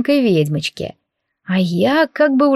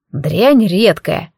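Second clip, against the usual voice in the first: very slow, scornful dig; scornful snort; much slower than usual. Acted. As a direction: spit it out with contempt from the floor. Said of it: "фыркнул оборотень". (оборотень фыркает на колобка, очень медленно)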